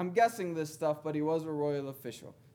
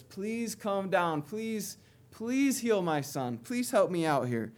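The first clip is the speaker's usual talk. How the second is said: begging. Retold or imitated. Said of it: "begging Jesus".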